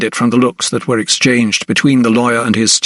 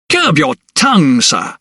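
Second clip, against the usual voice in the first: indignant roar; 4 semitones higher than usual. Acted. The steward rebuking the doctor, with an indignant roar. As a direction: bark the rebuke at the young doctor. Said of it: "he roared indignantly".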